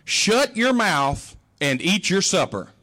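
slow, deliberate mother's order; stern mother. Retold or imitated. Mother scolding complaining kids at dinner, slow and stern. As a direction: lay down the law at the supper table.

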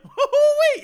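high, loud whooping hoo-wee; shouted celebration cry of an overjoyed dad. Retold or imitated. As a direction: whoop it out like the best news ever. Imagined joy in the meeting.

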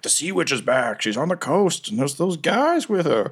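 high, panicked sailor voices; frightened survivors. Retold or imitated. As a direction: spread the rumor in a panic. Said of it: "survivors who are going around being like".

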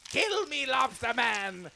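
ecstatic plea. Acted. Mother begging ghost ecstatically.

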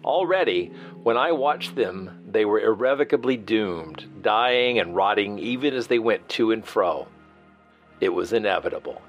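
reading a classic novel aloud; measured literary narration; dramatic reading. Acted. Host reads Wells passage aloud.

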